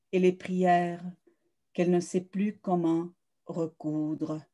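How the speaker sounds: measured literary recital with pauses between phrases; poised, deliberate verse reading, letting each image land; poetry reading. Acted. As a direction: read your own poem aloud, phrase by phrase. Reads own prologue and poems aloud.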